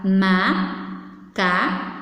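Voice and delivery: "macaco" as ma, ca, co with long pauses; split into syllables. Shown as a demonstration. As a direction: say "macaco" one slow syllable at a time. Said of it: "Vamos ver quantas vezes".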